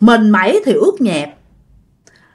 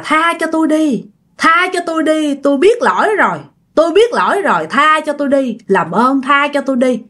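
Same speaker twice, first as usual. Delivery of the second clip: mildly raised, repeated pleading; understated mock wailing, higher pitched; retold cries for mercy; 4 semitones higher than usual. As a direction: beg for forgiveness in a higher storyteller's voice. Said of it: "cứ nghe tiếng ổng la".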